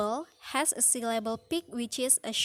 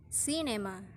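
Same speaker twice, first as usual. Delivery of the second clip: "cinema" with CIN stressed; first-syllable stress; 6 dB quieter than usual. Shown as a demonstration. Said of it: "first syllable is stressed".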